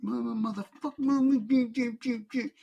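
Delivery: high mock angry wife, censored with beeps; shrill-free mock rant, bleeped out; imitating his furious wife. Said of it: "She's like".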